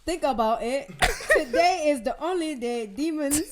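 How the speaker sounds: put-on half-laughed go at a Jamaican-like accent; attempted accent, Jamaican-sounding. Actor reading a script as a game, wobbly Jamaican-like accent. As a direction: fumble into a vaguely Jamaican accent. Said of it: "Is that Jamaican?".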